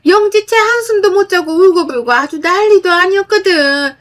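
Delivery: high, loud berating on the phone; mother-in-law yelling at daughter-in-law over the phone, angry and loud; angry scolding mother-in-law. Acted. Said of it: "시모에게 전화가 왔고 욕 한 바가지를".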